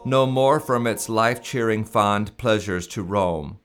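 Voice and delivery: put-on slow, measured recital of old hymn lyrics; slow hymn reading. Shown as a demonstration. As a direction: read each line like a solemn poem. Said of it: "I apologize for the slow reading".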